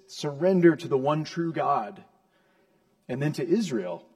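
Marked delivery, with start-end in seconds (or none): 0.1-2.0 loud, forceful order to surrender; emphatic, raised-voice command. Acted. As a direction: demand it of the nations at full voice. God commanding the warring nations.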